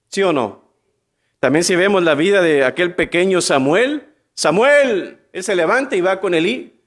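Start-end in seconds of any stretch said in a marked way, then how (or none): 4.3-5.2 calling out. Acted. God calling boy Samuel.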